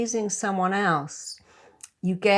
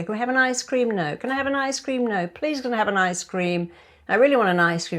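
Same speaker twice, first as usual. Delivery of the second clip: put-on whiny kid; 4 semitones higher, much faster than usual. Kids begging parent for ice cream.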